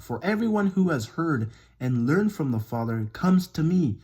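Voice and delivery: emphatic Bible reading with rising and falling emphasis; scripture reading. Acted. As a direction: read it out, leaning on key words. Reads scripture aloud.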